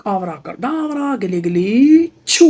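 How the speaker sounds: slow, drawn-out magic chant; kids party magician. Pretend. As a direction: chant the spell slowly like a magician. Magician casting a spell. (धीमा जादुई मंत्र)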